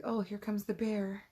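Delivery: mock-beg the dog to save you; mock damsel in distress. Mocking her mom's idea of using the dog as bear bait, hammed-up. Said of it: "It's like".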